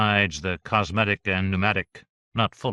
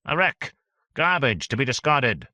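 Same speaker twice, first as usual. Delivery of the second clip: angry; 6 semitones higher than usual. Acted. Continues angry outburst.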